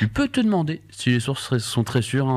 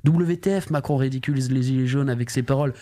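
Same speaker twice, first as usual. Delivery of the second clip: higher, hyped clickbait read; clickbait video narrator; 4 semitones higher than usual. Retold or imitated. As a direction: sell each headline like clickbait. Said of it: "ça sera écrit".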